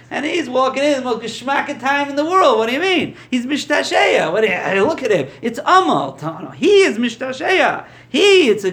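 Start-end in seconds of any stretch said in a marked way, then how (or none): 3.3-4.3 emphatic insistence. Real, not acted. Insisting he is enjoying it.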